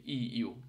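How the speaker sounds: "ই ইউ" as a glide like English you; teacher's demo "ই ইউ", ee gliding into yoo; Finnish Y sound. Shown as a demonstration. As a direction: model the letter as "ই ইউ", drawn out. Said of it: "ইউর মতো উচ্চারণ করি".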